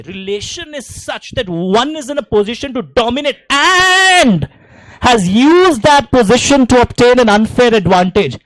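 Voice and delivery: slow, loud rote-learning chant; student reciting the definition loudly at home; slow recital shout. Shown as a demonstration. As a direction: belt it out the way you would memorise it aloud. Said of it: "ऐसे चिल्लाओ".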